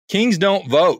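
the punchline said through a laugh; laughing retort. Retold or imitated. Retelling his comeback to the staff member, laughing. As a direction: chuckle while delivering the comeback. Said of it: "I said".

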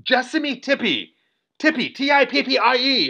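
double-check the name in disbelief; lightly acted baffled hospital staff; retold disbelieving medic. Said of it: "I heard them through the sheet going".

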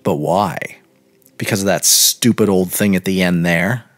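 lightly voiced young man; a hint of a scornful boy; boy's voice. Boy voiced in contrast to girl.

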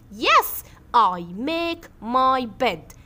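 yes I make my bed, each word drawn out; slow model answer. Shown as a demonstration. Teacher models Salma's answer word by word. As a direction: say the answer slowly for the class. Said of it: "فسلمى هتقول ايه؟".

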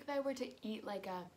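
talking around candy; sucking lollipop while speaking; lollipop at lips. Real, not acted. Seen 1: Lollipop held against her lips 0.4–1.5, removed by 1.8.

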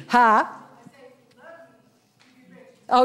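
ordinary talk, nothing marked

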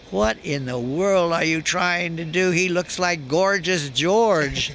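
lightly voiced booming Orson Welles laughing at him; a hint of a big roaring director, slowed down. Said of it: "he roared, laughing so hard".

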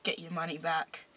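put-on Cockney accent. Shown as a demonstration. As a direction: agree firmly in Cockney. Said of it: "we're doing Cockney".

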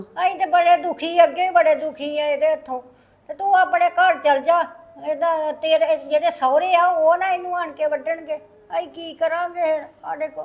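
a worn-out mother's weepy appeal; tearful pleading. Acted. Mother begging her son's lover to go home, tearful pleading. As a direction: plead through tears. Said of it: "ਤੁਸੀਂ ਰੋਵੋ ਨਾ ਬੀਜੀ".

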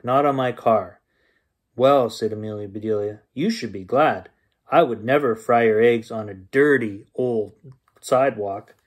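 lively bedtime story reading; story narration. A narrator's reading. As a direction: read it like a bedtime story to kids. Reads bedtime story aloud.

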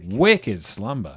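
slow mock Boston-Antipodean accent; mixed regional accent. Player trying requested accents on a card name, mixed accent. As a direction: draw out an Australian-New Zealand "Slumber" without the R. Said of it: "and New Zealand accents".

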